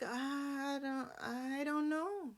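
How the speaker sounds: soft, hesitant mumble; hesitant, unsure. Retold or imitated. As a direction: trail off unsure and quiet. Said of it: "Sienna's like".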